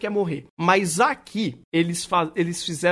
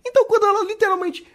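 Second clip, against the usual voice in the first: excited retelling; 3 semitones higher, 4 dB louder than usual. Retold or imitated. Retold Faputa scene, excited.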